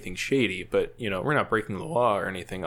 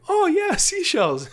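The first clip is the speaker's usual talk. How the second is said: very high, loud, drawn-out reply; mock-eager agreement; 6 dB louder, slower than usual. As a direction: play along with exaggerated eagerness. His nervous reply to the guard.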